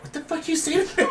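high-pitched mock indignation; hammed-up offended challenge; mock outrage. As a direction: imitate someone itching for a fight. Imitating woman picking a fight.

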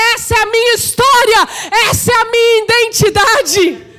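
impassioned cry from the pulpit; Pedrão's preached shout. Retold or imitated. Preacher voicing Pedrão declaring his identity, shouting. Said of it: "Pedrão começou a gritar".

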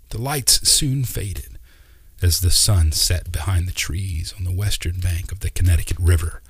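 ordinary delivery

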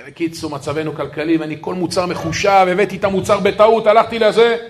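starts level, climbs to a mild cry of justification; pleading explanation. Retold or imitated. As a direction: imitate someone explaining himself with mounting urgency. Acted tearful explanation, building.

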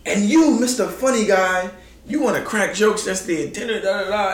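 mock an angry coach chewing someone out; retold coach yelling. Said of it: "He's yelling at Huff".

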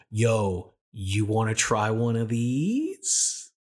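put-on sleazy old guy. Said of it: "old guy offering pills".

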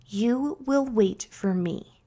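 slow, unhurried and assured; calm authority. Retold or imitated. Speaker pausing before an audience, slow confident voice. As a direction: let them know they will wait for you. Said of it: "comes off as authoritative and confident".

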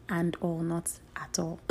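breathy unvoiced whisper; whispered aside. Real, not acted. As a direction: whisper it to yourself. Aside correcting herself.

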